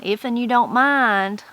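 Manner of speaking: slow, with "If'n" said as "if-un"; dialect example. Shown as a demonstration. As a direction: read the sample slowly, sounding out "If'n" as "if-un". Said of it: "The next one is if'n".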